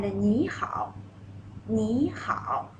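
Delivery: "ni hao" demonstrated for the class; casual greeting. Shown as a demonstration. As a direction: model "ni hao" slowly. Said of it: "ni" second tone".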